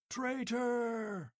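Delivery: high furious roar; roared back. Acted. Tribesmen roaring back at Conan, wholehearted fury. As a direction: hurl it back at him. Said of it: "they roared back wholeheartedly".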